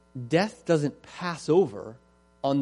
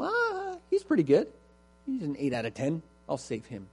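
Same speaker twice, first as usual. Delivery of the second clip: mock casual God; 2 semitones higher than usual.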